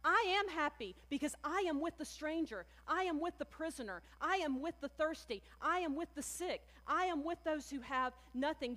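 preacher voicing Jesus to the congregation; proclaiming as Jesus. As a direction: declare it like a lightly voiced Jesus. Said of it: "Jesus is saying to us".

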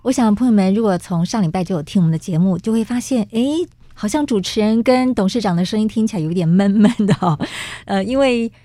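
muffled behind a face mask; through a face mask. Real, not acted. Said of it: "都必须要戴着口罩录音".

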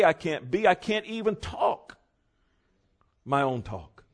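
preacher voicing Paul, climbing in pitch with mounting urgency; fervent Paul. Preacher voicing apostle Paul to congregation, building fervent plea. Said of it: "what Paul was saying here".

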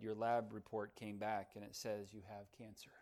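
heavy-hearted. A narrator's reading. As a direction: deliver the bad news gently and heavily. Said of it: "With a heavy heart".

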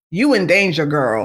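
lightly voiced Whoopi from Ghost; a hint of Oda Mae's warning; mild mock warning, Whoopi style; Whoopi Goldberg quote. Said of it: "in the words of Whoopi Goldberg when she was in Ghost".

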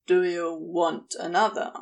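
low, hard, broken into pieces. Acted. Crowley to his angel, low and hard. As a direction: let it crack apart low in the throat. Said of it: "voice low and hard enough to come out in pieces".

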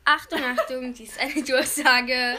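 langsame, getragene Ansage; Durchsage wie über Lautsprecher. Pretend. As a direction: wie eine Durchsage im Bahnhof. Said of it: "Das soll also eine Durchsage sein". (Schüler probt eine Lautsprecherdurchsage)

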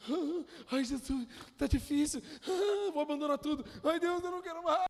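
high, whiny mock complaint; mock whining. A believer moaning to Jesus, mock whining. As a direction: whimper like you're giving up. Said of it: "você tá aí".

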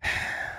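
long soft exhale; sigh. Real, not acted. Storyteller hearing his story called weird, soft sigh. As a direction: let out a slow, quiet breath. Sighing after cohost's dismissive reaction.

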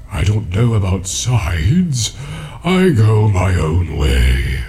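ancient tree giant. Acted. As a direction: speak like a patient ancient tree. Treebeard voiced throughout.

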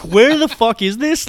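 high, drawn-out mock disbelief; retold cold-water shock. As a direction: act out being stunned by the cold, slowly. Acted shock at freezing water.

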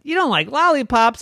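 put-on high, astonished little-kid question; incredulous child. Irene shocked that Mommy dislikes lollipops, incredulous. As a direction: jump up high in disbelief.

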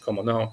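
a quick Spanish como no, then back to English; casual Spanish aside. Real, not acted. Blogger slipping into Spanish while in Thailand, offhand. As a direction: toss in como no with a Spanish lilt. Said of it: "I don't know why I said Spanish".

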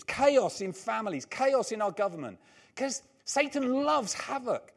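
rally the congregation to battle with punched commands; impassioned preaching. Real, not acted. Preaches a rousing call to fight.

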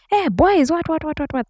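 high-pitched imitation of a telling-off; retold scolding with little added volume; mock scolding. Parents scolding her about boys, mock scolding. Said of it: "I remember getting shouted at".

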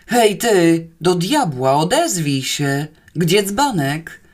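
slow, insistent irritated shouting; angry roar. Acted. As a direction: demand an answer, moderately loud. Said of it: "ryknął okropnie". (gniewne, natarczywe wołanie)

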